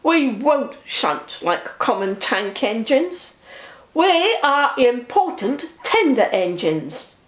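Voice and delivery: slow, lofty, self-important boast; pompous Gordon. Acted. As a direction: lecture them like a snob engine. Gordon boasting to Fat Controller.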